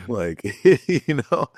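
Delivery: real laughter breaking into the words; amused, giggling between words; laughing. Real, not acted. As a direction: laugh through it, pitch jumping up. Laughs at co-host's comment.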